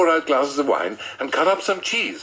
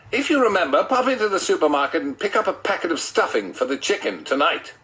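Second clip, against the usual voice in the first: wife's voice; 6 semitones higher than usual. Acted. Narrator voices wife Janet.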